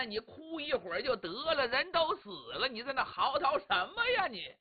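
a bound man griping to himself; annoyed inner grumble. Acted. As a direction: mutter your complaints, fed up and impatient. Li Xuanying grumbles inside his head.

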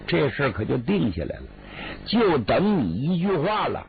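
a lightly voiced elder brother, earnestly persuading; mild brotherly coaxing; Li Jun coaxing sister. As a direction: talk her round gently, like a patient older brother.

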